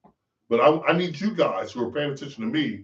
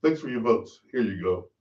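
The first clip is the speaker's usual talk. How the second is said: mock Biden; 3 semitones higher than usual. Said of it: "This is Biden's way of saying".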